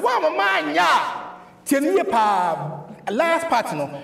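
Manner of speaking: high, shouted quote; acted retort. Preacher acting out the exchange with Peter, high shout. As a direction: call it out high, in character. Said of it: "Yes, Peter said".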